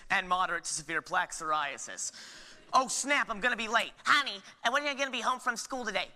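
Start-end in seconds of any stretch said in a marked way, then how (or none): 2.7-3.9 suddenly alarmed, louder; sudden panic. Acted. 4.0-6.1 lightly voiced mom, fast; a hint of a busy mother. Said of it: "Well, Mom".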